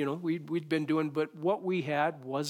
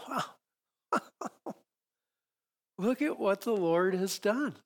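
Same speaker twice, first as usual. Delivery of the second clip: amazed wow; 5 semitones higher, slower than usual. Retold or imitated. Retold awe at God's goodness.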